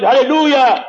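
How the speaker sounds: imitated exclamation of praise; retold joyful shout. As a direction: call it out like an overjoyed boy. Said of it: "springt er auf und schreit".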